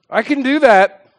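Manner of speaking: a pimp threatening with a knife; menacing threat. Retold or imitated.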